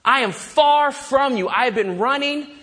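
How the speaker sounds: lightly acted desperate confession to God; a touch of anguished prayer; Jonah. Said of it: "And so Jonah is saying".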